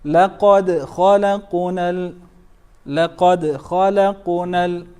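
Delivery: chanted, small bounces on لقد and خلقنا; minor qalqala. Shown as a demonstration. Teacher showing two sughras, light echoes in لقد خلقنا. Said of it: "two صغرى".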